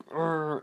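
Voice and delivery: imitated growl of rage; mock angry growl. Boyfriend threatening her with a belt, mock angry growl. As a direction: growl out a put-on grunt of anger.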